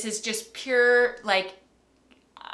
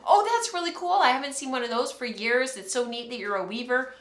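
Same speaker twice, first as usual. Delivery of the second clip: higher, bright mock-friendly neighbour; imitating overly friendly neighbour; 4 semitones higher than usual. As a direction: play the grumpy neighbour suddenly all sweet. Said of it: "he's like".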